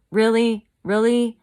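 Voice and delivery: real exasperated yell; incredulous shout. Real, not acted. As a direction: throw it out in outraged disbelief. Outraged disbelief at the guest.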